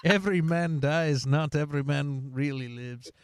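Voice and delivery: put-on laughing through a weak Scottish accent; a hammed-up Scottish Braveheart line, half laughing; mock Scottish accent quoting Braveheart to a friend; bad Scottish accent. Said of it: "that was a bad Scottish accent".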